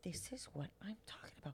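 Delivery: soft unvoiced aside; whisper. Real, not acted. Whispering agreement to her co-host. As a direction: lean in and whisper it.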